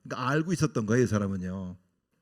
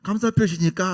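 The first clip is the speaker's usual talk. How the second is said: self-reassuring; 4 semitones higher, 3 dB louder than usual. Retold or imitated. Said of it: "하면서 저를 위로하면서".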